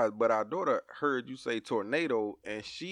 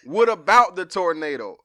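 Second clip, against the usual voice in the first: louder, laughing disbelief; loud amused disbelief; incredulous dad; 4 semitones higher, 7 dB louder than usual. Retold or imitated. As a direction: stop her and ask in disbelief. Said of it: "And I'm like".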